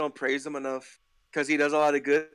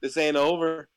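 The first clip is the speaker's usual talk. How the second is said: normal talking voice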